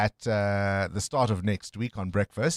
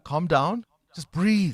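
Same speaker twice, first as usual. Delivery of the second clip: mock soothing; 7 semitones higher, slower than usual. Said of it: "what the audience would be screaming at me".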